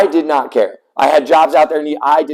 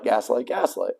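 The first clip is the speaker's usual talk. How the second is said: much softer, trailing off; fading repetition; 10 dB quieter than usual. Real, not acted. Describing the guardian to viewers, fading whisper-soft repeat. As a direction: let each gaslight fade almost to nothing. Repeated word fades away.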